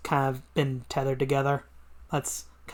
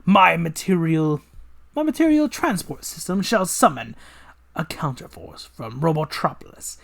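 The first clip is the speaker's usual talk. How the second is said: villain voice; 3 semitones higher, 5 dB louder than usual. Acted. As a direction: savour every word like a mad scientist.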